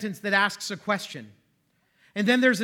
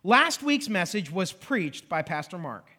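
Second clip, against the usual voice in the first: slow, deliberate example reading; read out slowly; 2 semitones lower than usual. Shown as a demonstration. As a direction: read the example sentence carefully. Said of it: "So look at this sentence".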